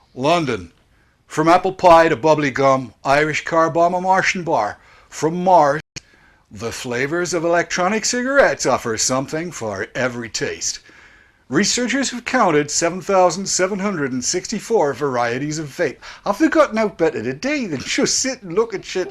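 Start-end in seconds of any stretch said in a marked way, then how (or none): 0.2-16.0 put-on American accent. Reading a news article aloud to the others: put-on American accent. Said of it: "I'm gonna read this in an Americanian accent".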